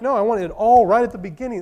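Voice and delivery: a touch of whiny insistence; lightly voiced demand; mock impatient demand. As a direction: act out the impatient believer. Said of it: "sometimes we're like".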